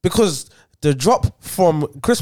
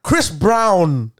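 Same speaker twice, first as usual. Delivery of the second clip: mocking. Real, not acted. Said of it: "This man is mocking it".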